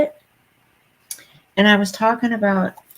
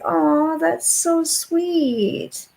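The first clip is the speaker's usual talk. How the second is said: sweet flattered self; 9 semitones higher, much slower than usual. Retold or imitated. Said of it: "And I was like".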